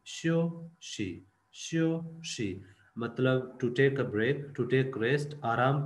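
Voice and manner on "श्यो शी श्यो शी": श्यो शी drawn out slowly, falling then level; slow xiuxi. Shown as a demonstration. Teacher slowly modelling the Chinese word xiuxi. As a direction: spell out श्यो शी slowly for learners. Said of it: "सबसे पहला है श्यो शी".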